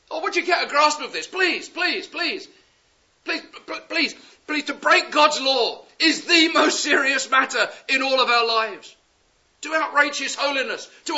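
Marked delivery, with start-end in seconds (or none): 1.3-4.6 pleading. Real, not acted. Preacher pleading with the congregation. 4.6-9.0 preaching shout. Real, not acted. Preacher stressing a serious point.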